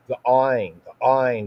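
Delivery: "Ain" with a hard, throaty A; "Ain" said with a guttural A. Shown as a demonstration. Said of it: "the hard A".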